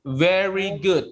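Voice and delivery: ordinary talk, nothing marked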